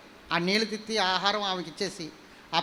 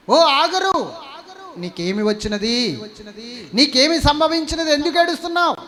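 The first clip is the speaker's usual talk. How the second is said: loud and higher divine call; 7 semitones higher, 4 dB louder than usual. Acted. God asks crying Hagar why she weeps, loud call. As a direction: call down to her from heaven.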